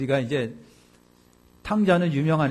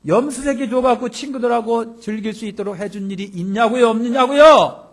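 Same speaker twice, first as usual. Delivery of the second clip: loud, higher, indignant complaint to a father; elder son confronting his father, louder and higher with indignation; arguing back at father; 5 semitones higher, 7 dB louder than usual. Retold or imitated. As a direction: hammer the grievance home, rising to a shout. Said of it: "따지면서 그냥 아버지를 대드는 거예요".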